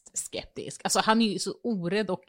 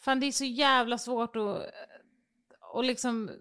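whisper; 4 semitones higher, 3 dB quieter than usual. Real, not acted. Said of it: "unvoiced whisper, struggling for words".

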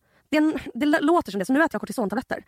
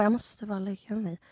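sleepy mumble; 6 dB quieter than usual. Retold or imitated. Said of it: "Jag bara".

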